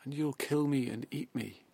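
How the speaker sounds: bleating cub. Acted. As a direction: beg the tiger in panic. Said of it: "bleated the cub".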